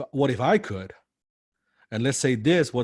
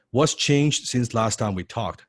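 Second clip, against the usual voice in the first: asked slowly, stressing what's; slow, clear question to a client; slow demo question; slower than usual. Shown as a demonstration. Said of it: "Now, this is good".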